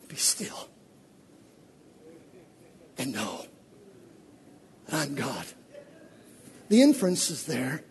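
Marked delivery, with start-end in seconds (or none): 0.1-5.5 much softer, lower whisper; whispered reverent scripture; hushed whisper. Acted. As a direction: breathe the verse into stillness.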